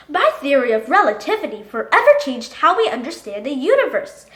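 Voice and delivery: ordinary delivery, nothing marked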